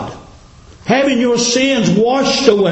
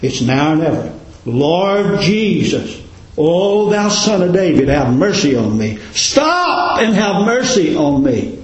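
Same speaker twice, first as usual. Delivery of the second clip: crying out; 4 semitones lower than usual. Retold or imitated. Blind beggar calls to the Savior, retold crying out. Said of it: "He begins to cry".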